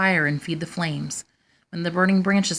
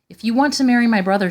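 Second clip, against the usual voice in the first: 1 firm challenge; 5 semitones higher, 6 dB louder, faster than usual. A narrator's reading. Sister challenges the proud girls.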